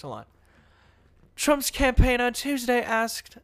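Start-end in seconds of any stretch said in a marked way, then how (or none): 1.4-3.4 British newscaster. Shown as a demonstration. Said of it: "read it in a newscaster voice".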